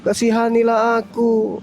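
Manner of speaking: broken-record pleading; skipping cd. Retold or imitated. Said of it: "Kasetnya rusak". (seperti kaset rusak, memohon)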